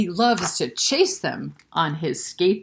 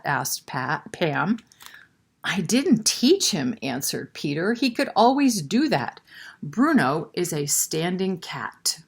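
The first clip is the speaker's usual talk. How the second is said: put-on storyteller voice for kids; story narration. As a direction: tell it like a read-aloud.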